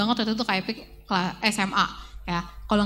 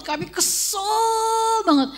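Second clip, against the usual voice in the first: normal talking voice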